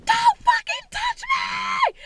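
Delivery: long, high-pitched furious shriek; reenacted hysterical warning; screaming. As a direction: scream it slowly, every word stretched. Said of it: "I just started screaming".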